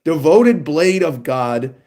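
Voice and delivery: slow, grand reading of a boss title; epic title announcement. Shown as a demonstration. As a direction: announce it like an Elden Ring boss. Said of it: "Elden Ring sounding title right there".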